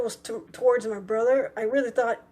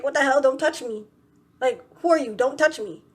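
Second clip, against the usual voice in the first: louder on the challenges, mildly indignant; retold indignation; 3 semitones higher, 4 dB louder than usual. Telling off the man who tapped her, indignant. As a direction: push him away with your words.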